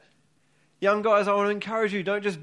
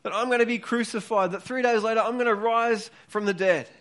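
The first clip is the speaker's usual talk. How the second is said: passionate Jesus pleading; 4 semitones higher than usual. Retold or imitated. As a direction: plead with them like Jesus urging his disciples. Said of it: "He, he's saying".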